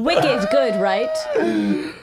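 loud, hammed-up Boston imitation; mock Boston accent. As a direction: mimic a bad Boston accent. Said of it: "can't really do the accent".

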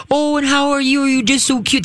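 put-on high, sing-song baby talk to a puppy. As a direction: coo at the dog like a baby. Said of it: "They do this baby talk crap".

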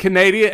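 Canada said as Canadia, four syllables; Canadia mispronunciation. Retold or imitated. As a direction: say Canada as ka-NAY-dee-uh. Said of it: "she said Canada".

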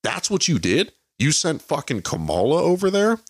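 high, incredulous outburst; mock stunned onlooker; baffled disbelief. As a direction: ask it like you can't believe your ears. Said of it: "And everybody's like".

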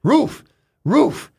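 high, loud "Roof, roof" like a barking dog. Retold or imitated. Joke teller voicing the dog, loud high barks. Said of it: "Dog looks up, goes".

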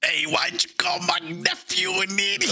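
high put-on uncle character voice; Uncle Bew voice. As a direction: pitch way up as the cranky uncle. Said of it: "Uncle Bew is a new character on the show".

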